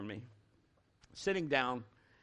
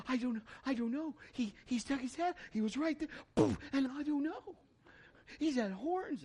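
much higher, breathless, rushed; stunned excited son; 10 semitones higher than usual. Retold or imitated. Son tells dad about the shot, excited and stunned. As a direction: babble in excitement.

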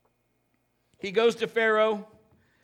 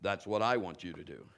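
very low, hushed divine voice; deep, quiet imitation of an unseen voice; voice of God; 14 semitones lower, 8 dB quieter than usual. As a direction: speak low and soft, as God calling. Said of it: "I hear this voice saying".

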